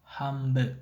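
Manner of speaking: "Hamburg" said with an m before the b; assimilated pronunciation. Shown as a demonstration. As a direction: run it together as "hambuh", no d. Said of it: "is often pronounced".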